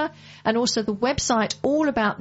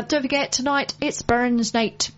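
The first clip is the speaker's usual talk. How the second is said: put-on Scottish accent; 2 semitones higher than usual. Radio host greets Burns Night in a mock Scottish accent. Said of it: "That was my Scottish accent".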